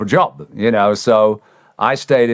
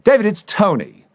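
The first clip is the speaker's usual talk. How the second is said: manager on the phone; 12 semitones higher than usual. Retold or imitated. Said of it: "and he goes".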